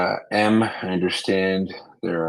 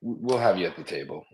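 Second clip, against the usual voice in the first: choppy, dropping-out audio; bad connection; 4 dB louder, faster than usual. Real, not acted. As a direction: voice breaking up on a bad line. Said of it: "your voice is cutting out really bad".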